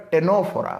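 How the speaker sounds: ଟେନୋଫୋରା begun directly on T; silent C. Shown as a demonstration. Teacher asks how to say it, answers ଟେନୋଫୋରା with silent C. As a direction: leave out the C, pronounce ଟେନୋଫୋରା. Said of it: "ଆକୁ କ'ଣ କହିବା".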